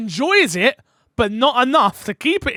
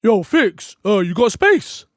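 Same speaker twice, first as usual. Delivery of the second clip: loud, high mock greeting; hammed-up eager pal; questionable friend impression; 3 semitones higher, 8 dB louder, slower than usual. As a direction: call out like a keen gamer wanting in. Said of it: "These impressions are questionable".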